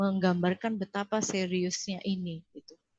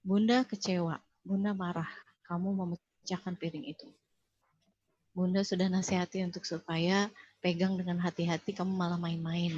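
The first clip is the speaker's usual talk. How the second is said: calm expression of feeling. Retold or imitated. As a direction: tell the child calmly how you feel. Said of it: "mengekspresikan emosi".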